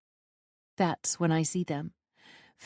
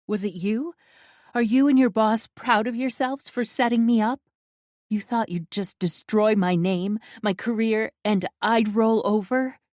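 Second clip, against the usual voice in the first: higher, louder furious questions; angry accusation; 4 semitones higher, 5 dB louder than usual. Acted. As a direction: demand answers, voice rising. Heroine accuses Sid.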